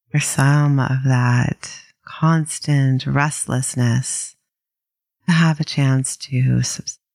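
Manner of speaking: calm, unhurried meditation guide with long pauses; gently paced mindfulness instruction; guided meditation. Acted. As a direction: ease listeners into settling, leaving space between phrases.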